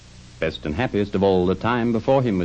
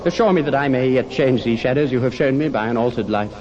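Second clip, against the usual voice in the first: raised, imploring voice; earnest pleading; 5 semitones higher than usual. Acted. Scrooge to the good spirit for pity, earnest pleading.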